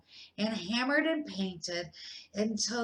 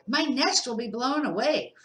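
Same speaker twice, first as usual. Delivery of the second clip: louder, fretful bird voice; worried bird; 3 semitones higher, 5 dB louder than usual. Acted. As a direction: flap about in worry. Bird character voice.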